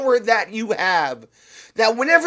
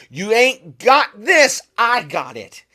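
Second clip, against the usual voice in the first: defiant declaration; 4 dB louder than usual. Shown as a demonstration. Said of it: "speak to that blue shell and say".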